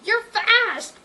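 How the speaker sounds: high, loud call; cried out running. Acted. Berkeley calling ahead while running after Sadie, loud high call. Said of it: "Berkeley cried out as he ran".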